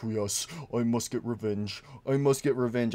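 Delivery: low, soft menacing mutter; lightly voiced villain; brooding Golden Freddy. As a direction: scheme revenge quietly. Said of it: "He's like".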